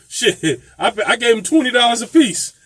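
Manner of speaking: laughing through the words; amused admission between laughs. Real, not acted. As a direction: chuckle it out.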